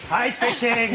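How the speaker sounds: lightly voiced robot butler; a hint of a polite robot; Eskimo robot butler. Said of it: "Eskimo robot butler".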